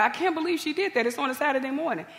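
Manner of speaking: mildly indignant, retold complaint; retold upset. Teacher complaining to her sister about the principal's cleanup, retold upset. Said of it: "and she was so upset".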